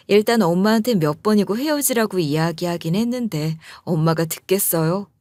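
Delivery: plain reading voice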